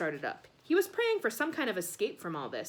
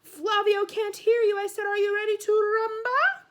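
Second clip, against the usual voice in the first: put-on host demanding the crowd shout louder, Italian accent; 11 semitones higher, 9 dB louder than usual. A narrator's reading. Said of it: "his Italian accent".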